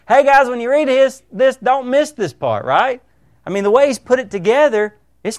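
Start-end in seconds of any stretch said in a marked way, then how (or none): 0.1-2.6 higher-pitched, lightly raised call-out; mock megaphone call. Paul alerting his readers, a mock megaphone announcement. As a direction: imitate an urgent announcement without full shouting. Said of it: "get a megaphone and just say".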